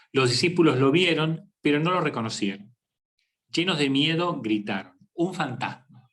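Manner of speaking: Gospel reading. Acted. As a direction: read the passage to the congregation. Reads a Gospel passage aloud. (lectura pausada del Evangelio)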